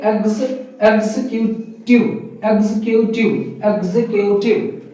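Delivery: एग्जीक्यूटिव in careful parts, 'eg-zi-kyoo-tiv'; correct pronunciation. Shown as a demonstration. Teacher drills students on the word, carefully sounded out. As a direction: build एग्जीक्यूटिव piece by piece. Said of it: "क्या बोलेंगे?".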